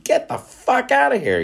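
high-pitched squeal of disbelief, way up; stunned disbelief. Acted. A rival country hearing about the coast-to-coast train, shrieking in disbelief. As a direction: shriek it like you can't believe your ears. Rival nation hears of moon rockets.

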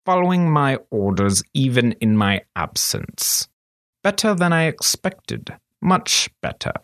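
half to himself, pleased; lightly voiced scheming master; musing master. A narrator's reading. Master praising obedience to himself, lightly voiced.

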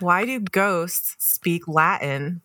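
drawn-out joke teller's question; slow riddle setup. Acted. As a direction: slowly set up the riddle. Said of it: "here's a little trick".

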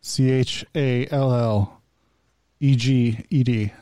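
slow, letter by letter; spelling it out. Real, not acted. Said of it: "Spell it out".

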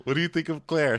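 usual speaking voice

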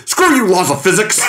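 hammed-up defiant exclamation; mock defiance. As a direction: hurl it out as a comic boast. Mimics riffer's defiant shout at film.

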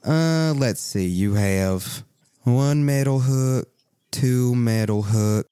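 slow, lightly voiced storekeeper; drawn-out counting, a hint of character; shopkeeper tallying. Game master as shopkeeper adding up goods, slowly in character.

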